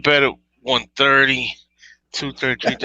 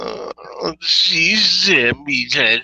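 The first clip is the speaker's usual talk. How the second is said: Archie Bunker voice; 4 semitones higher, much slower than usual. Pretend. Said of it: "do it one time".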